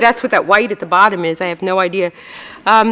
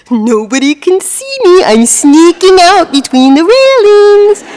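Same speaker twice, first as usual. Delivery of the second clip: higher, slow, hammed-up sneaking doofus; sneaky doofus voice; 9 semitones higher, 6 dB louder, slower than usual. Doofus in the picture sneaking through railings, mock sneaky. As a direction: play a clueless guy who thinks he's hidden. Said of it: "He's like".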